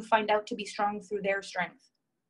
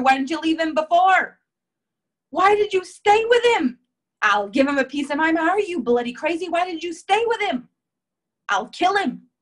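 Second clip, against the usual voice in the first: put-on much higher and louder British accent, furious; livid British grandma; 7 semitones higher, 9 dB louder than usual. British grandma yelling at daughter for staying, furious. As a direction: rage at her like a livid British gran. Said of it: "My grandma was livid".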